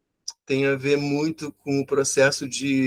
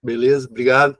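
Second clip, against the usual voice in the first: hoarse cracking voice from a cold; rough, cracking sick voice; 2 semitones lower than usual. Real, not acted. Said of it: "minha voz de taquara rachada".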